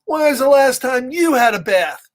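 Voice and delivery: put-on pigeon quizzing kids. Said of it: "So the pigeon's like".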